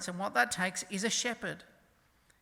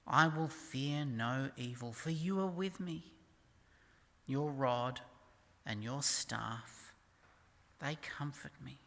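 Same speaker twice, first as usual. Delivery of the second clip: measured, lower-pitched psalm reading, softening at the close; scripture reading; 4 semitones lower than usual. Acted. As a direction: read it phrase by phrase, settling into a hush. Reads the psalm aloud.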